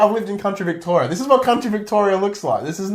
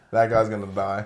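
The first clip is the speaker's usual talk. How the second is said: mock prediction; 9 semitones lower, 5 dB quieter than usual. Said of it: "Squad, like".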